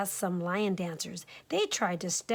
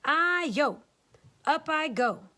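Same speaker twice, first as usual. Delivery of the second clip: higher cheeky cake voice, slow; higher teasing cake cry; 6 semitones higher than usual. Acted. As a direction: taunt as you roll away.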